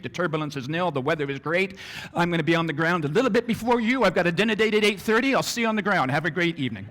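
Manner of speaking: a breezy, self-assured captain's announcement; a captain who has everything under control; confident pilot. Retold or imitated. Captain reassuring passengers before the flight, confidently. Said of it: "You feel a lot better".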